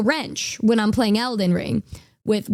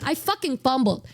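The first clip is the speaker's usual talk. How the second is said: ordinary delivery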